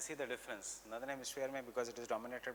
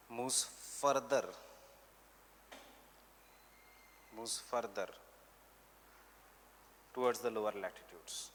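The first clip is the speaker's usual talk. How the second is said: measured note-giving, repeating phrases for writers; teacher dictating notes for students to copy; classroom dictation; slower than usual. Real, not acted. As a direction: dictate in short chunks with long pauses.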